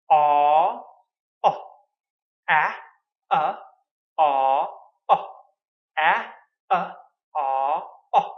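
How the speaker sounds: "Ah" then "uh", with the lips changing shape; vowel contrast drill. Shown as a demonstration. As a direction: switch "Ah" to "uh" by moving the lips. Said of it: "so my lips change".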